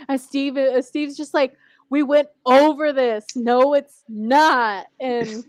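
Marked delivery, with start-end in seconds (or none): 1.9-4.9 exasperated. Retold or imitated. Acting Steve's exasperated argument.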